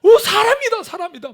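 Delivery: very high, loud shout like spotting a celebrity; starstruck shout. Retold or imitated. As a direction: scream "오" as if a famous band just walked by. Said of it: "마치 막 연예인 보는 것 같아요". (연예인을 본 팬처럼 높고 크게 외치는 목소리)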